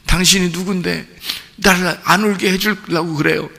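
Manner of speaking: soft, puzzled question from the widow; a hint of a wary mother; lightly voiced widow. Widow asking Jesus who he is, softly puzzled.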